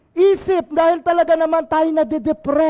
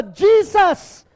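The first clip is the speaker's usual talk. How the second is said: raised voice calling across a distance; louder plea to the Master; 3 dB louder, much slower than usual. Acted. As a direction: call to Jesus from far away. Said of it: "And called out in a loud voice".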